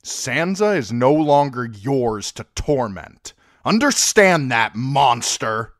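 a dwarf finally snapping at his nephew; hoarse. Acted. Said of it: "Tyrion's voice was hoarse".

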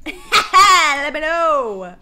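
laughing. Real, not acted. Laughing repeat.

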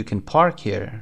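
can reduced to a short unstressed "kən"; weak can. Shown as a demonstration. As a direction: skim over can and land on park. (can ضعیف و کوتاه، بدون تأکید)

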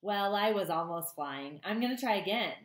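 high, eager little bird voice; a lightly voiced excited gosling; young gosling voice. Gosling character talks to Roz.

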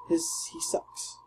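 high breathy whisper. Real, not acted. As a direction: whisper the jab. Mutters about the enemy.

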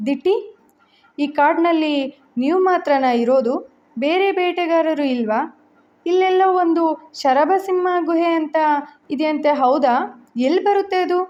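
curious questioning, mildly suspicious. Acted. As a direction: probe him with doubt, lightly. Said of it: "ಅನುಮಾನದಿಂದ ಪ್ರಶ್ನಿಸಿದ".

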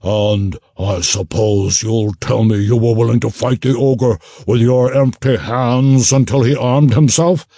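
mock his excuse as the gnoll; sneering gnoll. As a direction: gnoll captain scoffing at Garin. Gnoll captain voiced.

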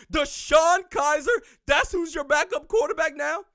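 incredulous shout. Real, not acted. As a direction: yell it like you can't believe it. Incredulous rant about backup QB.

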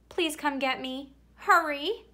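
rising high on hurry, pleading; urgent plea. Acted. Nervous child begging parents to fetch him, urgent. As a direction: beg them to hurry up.

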